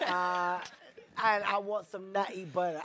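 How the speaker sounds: put-on English accent; badly faked English accent, trying in earnest; comic attempt at an English accent; awful English accent. Shown as a demonstration. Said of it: "My English accent?".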